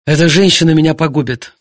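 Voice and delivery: jilted husband venting about his wife; blurted. Acted. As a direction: spit it out bitterly. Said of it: "выпалил Артур".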